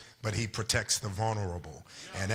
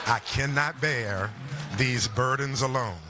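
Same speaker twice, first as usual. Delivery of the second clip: measured, emphatic hymn lines; preached hymn recitation; 3 semitones higher than usual. Acted. Pastor rehearsing a hymn with the congregation, preached recitation. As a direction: declaim the hymn with rising conviction.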